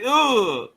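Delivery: a quick mock ugh of disgust; imitated disgusted ugh. Streamer repeats her reaction for chat, mock disgusted ugh. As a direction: toss off her grossed-out ugh. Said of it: "But she said".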